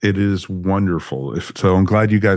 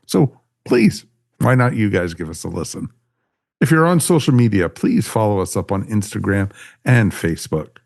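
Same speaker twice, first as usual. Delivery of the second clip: podcast host sign-off. Acted. Host asks listeners to write and subscribe, upbeat sign-off. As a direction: punch the start of each appeal, then settle.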